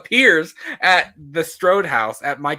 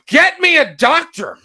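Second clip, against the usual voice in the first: louder, slower, high shout; mock shout; 11 semitones higher, 8 dB louder than usual. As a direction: bellow it at the nurse. Second take, shouting.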